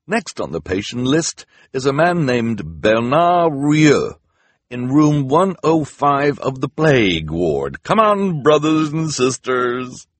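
high, loud, slow rallying call; rallying volunteer. Acted. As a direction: rouse the group cheerily.

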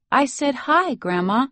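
put-on impatient kid demanding attention; impatient child. A hint of the impatient boy nagging his grandma. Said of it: "Grayer says impatiently".

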